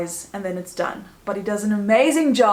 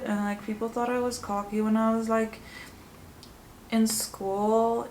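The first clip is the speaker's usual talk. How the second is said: a hint of Lexi's lazy accent, quieter; 5 dB quieter than usual. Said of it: "I can do her accent here".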